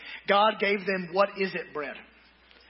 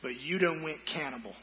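mock grumbling crowd; 3 dB quieter than usual. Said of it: "and said".

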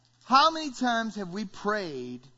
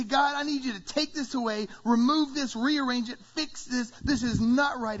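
higher, urgent demands; pleading prayer; 4 semitones higher than usual. Acted. Preacher voices people asking God for change, pleading prayer. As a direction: press each request on God. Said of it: "We say".

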